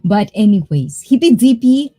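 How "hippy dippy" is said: high, loud mock witch chant; hammed-up witchy singsong. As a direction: throw out a loud, playful witch call. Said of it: "trying to find my witchy voice".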